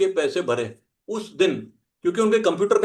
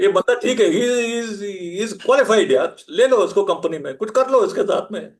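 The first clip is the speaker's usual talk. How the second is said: louder, lively praise as if he were hiring; mock impressed boss; 2 semitones higher, 4 dB louder than usual. Imitating impressed employers. (कंपनी वालों की नकल में जोशीली तारीफ़)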